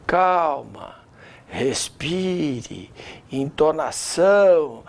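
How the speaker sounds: slow, low, soothing coaching; calming. Shown as a demonstration. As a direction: settle a nervous speaker down. Coach demonstrates calming down, breathing.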